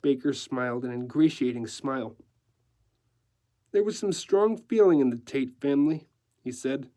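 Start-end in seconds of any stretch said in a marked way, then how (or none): 3.7-6.1 measured, tactful decorator; careful. Acted. Decorator explaining a lost account, careful. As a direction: choose your words with care. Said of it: "speaking carefully".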